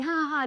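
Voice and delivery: high, put-on "ha ha ha"; staged laugh. Walking by to catch his eye, staged laugh. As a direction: fake a light laugh to be noticed. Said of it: "we're walking by and laughing".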